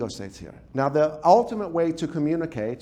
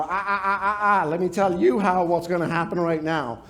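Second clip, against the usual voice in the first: stern scolding. Acted. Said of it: "They go".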